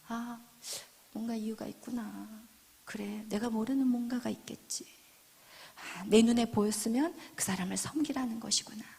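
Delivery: quiet, low thinking aloud; understanding musing. Acted. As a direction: reflect gently without judging. Inner thoughts of non-judging believer. (낮고 조용하게 혼잣말하듯)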